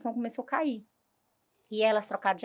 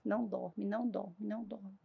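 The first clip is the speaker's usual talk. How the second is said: hushed inner voice, fading softer with each repeat; voz misteriosa; 9 dB quieter than usual. Retold or imitated. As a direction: murmur it like a voice heard while drowsy. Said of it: "eu comecei a escutar a voz". (voz baixinha que vai sumindo, reencenada)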